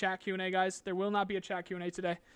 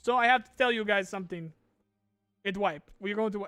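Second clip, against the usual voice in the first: put-on accidental Italian accent. Streamer quoting the developer on the wipe, mock Italian accent. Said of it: "I don't know why he's Italian now".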